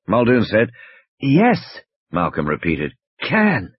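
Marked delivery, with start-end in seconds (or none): 1.2-1.8 higher, strained wheezy voice; injured man struggling to speak; weak wheeze. A narrator's reading. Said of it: "almost a wheeze". 3.2-3.7 higher, strained wheezy voice; injured man struggling to speak; weak wheeze. A narrator's reading. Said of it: "almost a wheeze".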